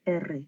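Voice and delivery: "R" said with a trilled, rolled r; Spanish rolled R. Shown as a demonstration. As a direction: roll the "R" hard on the tongue. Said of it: "qu'on va rouler".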